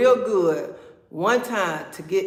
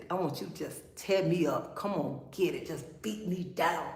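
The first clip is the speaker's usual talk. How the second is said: low, soft pretend bedroom talk; murmured mock come-on, kept soft; acted request to a lover; 3 semitones lower, 8 dB quieter than usual. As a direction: lightly act out intimate coaxing, voice dropped. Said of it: "Tell him, say".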